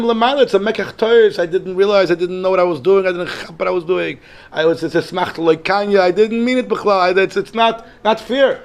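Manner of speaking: a soul insisting it was an honest mistake; pleading dead man. Retold or imitated. Dead man begging the court above, high and pleading. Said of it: "So I started telling them".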